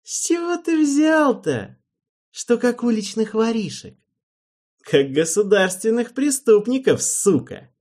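high, loud angry shout; furious shout. A narrator's reading. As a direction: hurl it at him in a rage. Damien's furious outburst.

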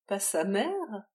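loud, slow, disbelieving cry; loud gasping disbelief; rasping cry. Acted. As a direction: hurl the question back in shock. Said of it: "râla-t-elle".

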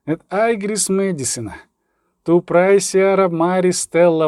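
measured, drawn-out devotional verse; solemn Latin prayer; Latin hymn recitation. A narrator's reading. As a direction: recite it as a slow church hymn.

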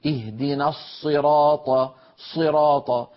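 slow recited "الصراط" with lips pursed forward on the Sad; faulty lip-rounded Sad. Shown as a demonstration. Teacher showing what no reciter should say, slow puckered Sad. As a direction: stretch "الصراط", puckering the lips on its first sound. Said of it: "فلا يصح أن يقول القائل منا".

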